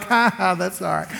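mock an easygoing brush-off; play mad. Shown as a demonstration. Husband showing what he was not like, play mad. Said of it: "I'm not play mad".

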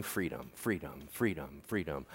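a quiet tempting murmur; whispered freedom. Retold or imitated. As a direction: coax it out in a hush. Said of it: "And he'll keep whispering".

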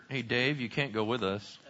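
low, soft, reluctant mumble; hushed, shamefaced admission; sheepish and embarrassed. Acted. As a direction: break bad news awkwardly to a friend. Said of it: "does this little kick in the dirt".

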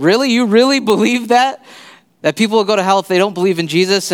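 high-pitched disbelief, quoting a stunned friend; acted-out astonished questioning; incredulous. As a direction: ask it again as if you can't believe it. Retells friend's disbelieving follow-up question.

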